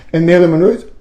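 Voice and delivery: very high, fast breathy starlet; Marilyn Monroe voice. Pretend. Imitating Marilyn Monroe to the viewers, coy. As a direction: coo like a bombshell. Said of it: "that's why sometimes I talk like this".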